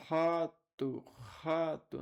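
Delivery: "Rato" with a long rasped initial R; emphatic sound demo. Shown as a demonstration. Teacher showing the class the R in "rato", pronounced emphatically. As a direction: lean into the breathy R opening "Rato". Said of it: "não é rato".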